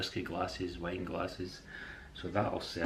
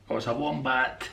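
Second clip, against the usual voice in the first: sudden discovery; 6 semitones higher, 6 dB louder than usual. Real, not acted. Suddenly recognises the animal.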